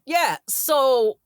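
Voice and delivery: lightly imitated halting storyteller; hint at his halting delivery, with odd pauses; Chris Walken. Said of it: "I do a terrible Chris Walken".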